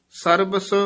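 "ਸਰਬਸ" ending in a short check; measured, separate "ਸਰਬਸ"; brief pause after. Shown as a demonstration. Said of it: "ਇੱਥੇ ਯਮਕ ਲਾ ਦੇਣੀ ਹੈ".

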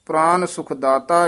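phrase run through to a rest on ਦਾਤਾ; rest after ਦਾਤਾ. Shown as a demonstration. Teacher marks the resting point, full pause after ਦਾਤਾ. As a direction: keep it together, then stop after ਦਾਤਾ. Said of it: "ਇੱਥੇ ਵਿਸਰਾਮ".

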